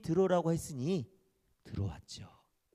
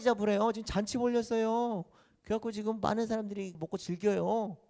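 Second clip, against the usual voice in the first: servant rattling off the news, a bit higher and livelier; a lightly voiced servant spilling the gossip; chatty servant; 5 semitones higher than usual. Servant tells the eldest son about the feast, lightly voiced.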